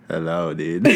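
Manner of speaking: low laid-back surfer dude; surfer boy voice. Shown as a demonstration. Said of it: "Say something into the microphone".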